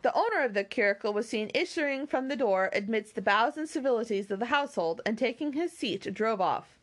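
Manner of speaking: measured, expressive storybook reading; story narration. A narrator's reading. Reader telling listeners of the party at Lyme, story narration. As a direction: read the novel out with lilting phrases. Reads a novel aloud.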